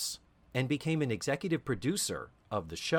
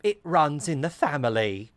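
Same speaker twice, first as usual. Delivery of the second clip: knowing reply; 4 semitones higher, 4 dB louder than usual. Retold or imitated. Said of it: "And she says".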